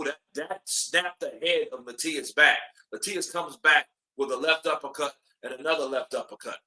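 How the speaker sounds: quick ringside play-by-play, lightly voiced; live boxing commentary. Commentator calling punches live, with a touch of excitement. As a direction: call each punch as it lands.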